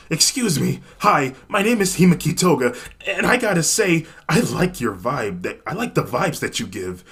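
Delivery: high, loud, bubbly schoolgirl; eager schoolgirl voice. Acted. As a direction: gush at her eagerly. Toga introduces herself.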